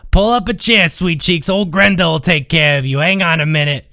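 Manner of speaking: waitress voice. Acted.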